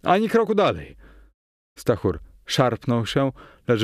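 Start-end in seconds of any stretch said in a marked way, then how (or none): 0.0-1.0 high, urgent cry to halt; shouted command. A narrator's reading. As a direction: call out a sharp order to stop. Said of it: "krzyknąłem".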